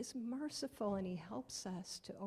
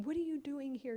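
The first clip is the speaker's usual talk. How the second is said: mild scolding; 6 semitones higher, 4 dB louder than usual. Acted. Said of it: "scolding Tiger".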